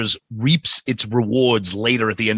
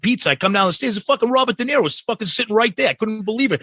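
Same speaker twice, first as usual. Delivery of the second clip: lightly voiced brash New Yorker, higher and fast; imitating the New York guy; 8 semitones higher than usual. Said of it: "Be like".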